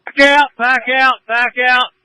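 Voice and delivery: urgent shouted order through a mask; firefighter shouting through mask. Real, not acted. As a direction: yell it over the radio to get them out. Collapse, ordering crews out.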